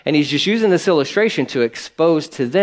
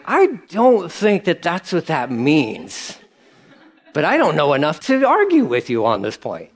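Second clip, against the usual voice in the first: laughing doubt. Retold or imitated. Retold reply, laughing.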